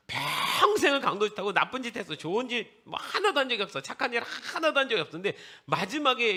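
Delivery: high, loud, hammed-up indignation; incredulous outburst. Preacher recounts a lifelong robber's record, loudly incredulous. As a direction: stretch the first words and pile it on loudly.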